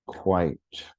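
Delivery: "quite" as one falling syllable. Shown as a demonstration. Teacher repeats the test word to count syllables, one-syllable "quite". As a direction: keep "quite" to one beat, vowel gliding straight into t. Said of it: "One syllable".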